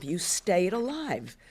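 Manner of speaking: alive slowed and leaned on; girl reassuring her grandmother, slow with "alive" stressed. Retold or imitated. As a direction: stretch out "alive" with gentle weight. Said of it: "I even stressed the word alive".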